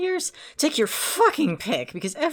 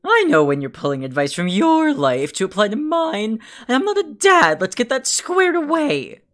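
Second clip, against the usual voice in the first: shouting angrily; 3 semitones higher, 6 dB louder than usual. Acted. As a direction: yell it in his face. Heated argument.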